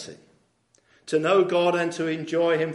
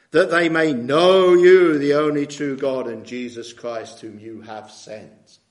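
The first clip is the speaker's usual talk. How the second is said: emphatic scripture reading; 9 dB louder than usual. Real, not acted. Preacher reads scripture with force.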